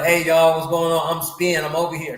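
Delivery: a mild mock yell to passers-by. Imagining hawking himself from the driveway, mock yell. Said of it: "and I'm yelling".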